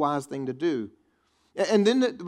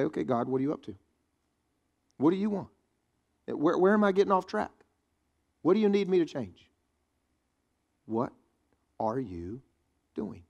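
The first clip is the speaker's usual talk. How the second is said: humble prayer. Retold or imitated. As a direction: ask God gently and sincerely. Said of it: "look at your circumstances and say".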